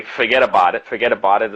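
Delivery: "forget about it" run together New York style; New York accent. Shown as a demonstration. Teacher demonstrating a New York catchphrase, run-together New York accent. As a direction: lightly put on New York speech. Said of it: "is another one".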